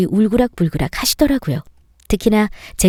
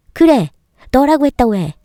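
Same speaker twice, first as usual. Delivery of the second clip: louder, higher, throwing it back at him; defiant shout; 3 semitones higher, 3 dB louder than usual. Acted. Wife yells back at her husband in a fight, defiant shout.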